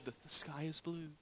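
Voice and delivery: soft whispered teacher line. Retold or imitated. Teacher whispering a test phrase to the child, softly. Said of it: "the teacher would whisper something softly".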